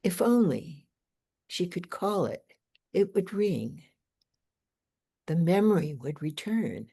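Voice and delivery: phrased, lilting poetry recital; poem reading. Acted. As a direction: read the poem aloud with deliberate pauses. Reads own poem aloud.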